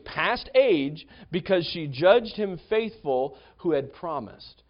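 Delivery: slow, deliberate verse reading; scripture reading. Acted. Preacher reading Hebrews to congregation, slow and reverent. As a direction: read the verse slowly and reverently.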